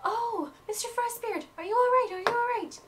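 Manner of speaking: high, fussing teacher voice; loud high worried witch; concerned teacher. Acted. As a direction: fuss over the fallen student. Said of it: "she says".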